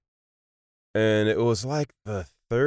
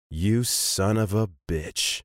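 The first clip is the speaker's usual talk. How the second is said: mock professor curse; slower than usual. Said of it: "looks me in the face and goes".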